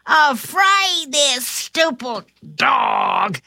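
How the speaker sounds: mild angry cry. Acted. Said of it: "cried the shorter burglar".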